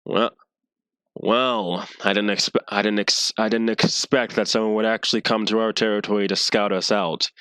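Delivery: deep voice. Acted. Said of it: "You hear a, a deep voice".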